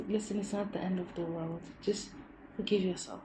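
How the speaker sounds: reassuring. Retold or imitated. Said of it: "he also affirmed".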